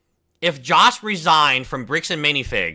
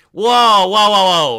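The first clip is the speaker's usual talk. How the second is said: surprised; 5 semitones higher, 7 dB louder, slower than usual. Real, not acted. Reacting to breaking news.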